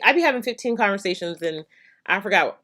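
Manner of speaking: usual speaking voice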